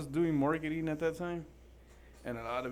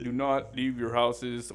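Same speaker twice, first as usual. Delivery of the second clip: mock radio announcer; 6 dB louder, much slower than usual. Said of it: "This was like".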